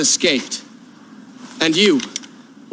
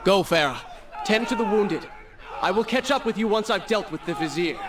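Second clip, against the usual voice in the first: calling out. Acted. Calling after Farah as she leaves.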